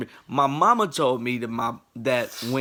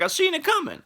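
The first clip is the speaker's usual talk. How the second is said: put-on high, smug kid voice; smug little nephew. Young nephew mocking his fallen uncle, high smug voice. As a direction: tease like a know-it-all little kid. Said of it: "He was like".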